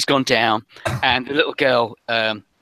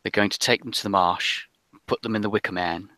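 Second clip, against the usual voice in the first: put-on frightened girl's confession; 2 semitones lower than usual. Little girl tells rescuers of the witches, hushed and halting.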